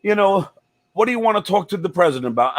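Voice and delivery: a hint of a cartoon mouse voice; Mickey Mouse voice. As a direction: lightly imitate a Mickey Mouse sounding caller. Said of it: "what sounds like Mickey Mouse".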